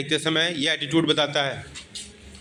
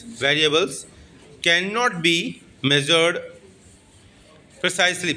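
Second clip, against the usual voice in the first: slow clear note-taking pace; slow dictation. Shown as a demonstration. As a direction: dictate cannot be measured word by word. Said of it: "dictating notes slowly".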